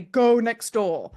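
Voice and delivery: slow, heavy inner voice commanding; powerful voice. Retold or imitated. An inner voice commanding her to go, slow. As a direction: say it slowly, like a voice from above. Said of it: "big, powerful voice say".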